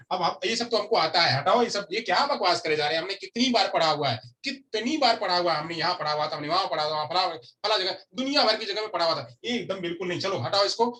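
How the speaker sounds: dismissive listener. Acted. Teacher mimics a selective listener dismissing familiar lessons, mildly impatient. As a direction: act out brushing off old lessons. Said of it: "selective में जब हमारी बात कही जाएगी".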